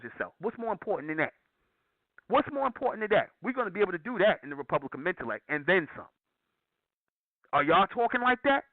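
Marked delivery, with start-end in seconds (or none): 2.3-3.3 much higher, pressing rhetorical question; raised indignant challenge to the audience; emphatic repeat. Real, not acted. 7.5-8.6 higher and louder challenge; raised scornful challenge to other organizations; challenging call-out. Real, not acted. Challenging rival groups.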